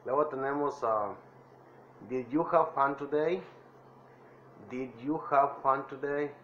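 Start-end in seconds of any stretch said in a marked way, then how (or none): 2.1-3.4 teacher modelling the phrase for repetition; model English phrase. Shown as a demonstration. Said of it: "traten de imitar mi voz". 4.7-6.3 teacher modelling the phrase for repetition; model English phrase. Shown as a demonstration. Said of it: "traten de imitar mi voz".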